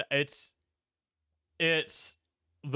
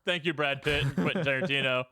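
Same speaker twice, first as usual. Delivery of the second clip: sarcastic. Retold or imitated. Sarcastic thanks for the payoff.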